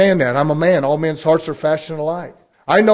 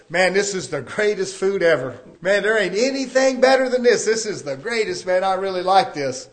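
mock cheesecake rapture. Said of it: "When I'm shoving cheesecake down my throat".

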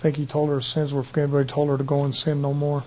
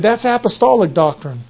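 louder, higher indignant retort; mock angry retort; 4 semitones higher, 5 dB louder than usual. Angry churchgoer accusing the preacher, a louder mock retort. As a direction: throw it back like an offended man. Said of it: "He got mad".

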